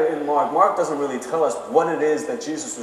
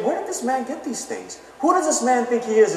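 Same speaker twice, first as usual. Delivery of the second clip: indignant crowd; 7 semitones higher than usual. Retold or imitated. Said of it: "and then they say".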